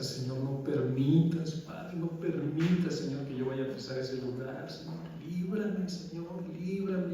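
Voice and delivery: retelling a tearful prayer, mildly voiced; tearful pleading prayer. Prisoner begging God not to be sent to jail, slow tearful plea. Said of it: "yo lloraba y decía".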